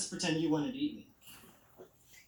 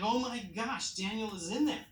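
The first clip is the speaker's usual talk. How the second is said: higher-pitched, amazed storyteller; mock astonishment; acted shock; 6 semitones higher than usual. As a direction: voice the king's disbelief, pitched up. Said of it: "like, shocked".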